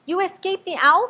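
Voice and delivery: high, loud amazement; excited cry. A narrator's reading. Stellaluna cries out to her mother, high and joyful. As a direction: burst out in joy. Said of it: "cried Stellaluna".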